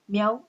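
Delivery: miau drawn out on the A; stress on A. Shown as a demonstration. Teacher showing a triphthong's nucleus, stress on the A in miau. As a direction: let the A sound most in miau. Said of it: "La que suena más".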